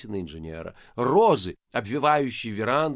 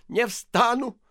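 stubborn refusal; 11 semitones higher, 5 dB louder, slower than usual. A narrator's reading. Priest kneeling, refusing.

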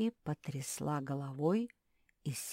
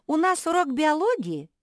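puppy question; 12 semitones higher, 12 dB louder than usual. A narrator's reading. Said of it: "спросила Мафи".

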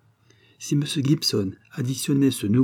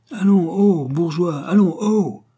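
loud, high coachman's shout; bellowed urging, pitch raised; yelling; 8 semitones higher, 6 dB louder, slower than usual. A narrator's reading. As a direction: holler to rouse a drunkard. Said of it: "hurlait le cocher".

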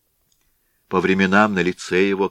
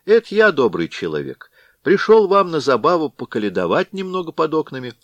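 higher, put-on caroler's voice; disguised voice; 9 semitones higher, 4 dB louder than usual. Chub disguising his voice to the blacksmith, lightly voiced. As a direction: fake a humble singer at the door. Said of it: "переменив голос".

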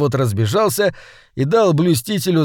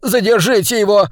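higher, louder, alarmed plea for help; agitated cry; 7 semitones higher, 4 dB louder than usual. A narrator's reading. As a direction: call for help in a fluster. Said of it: "волновалась жертва".

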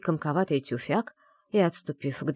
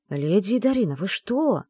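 plain reading voice

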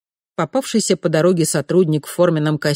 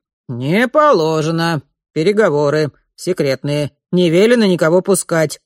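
grumbling; 4 dB louder than usual. Acted. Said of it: "буркнул".

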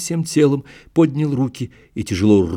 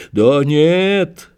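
angry shout; 5 semitones higher, 4 dB louder than usual. A narrator's reading. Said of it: "Вдруг злобно закричал раненый".

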